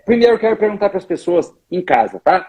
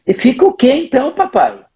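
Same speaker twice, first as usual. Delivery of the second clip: little daughter asking; 6 semitones higher than usual. Retold or imitated. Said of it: "se a tua filhinha dissesse".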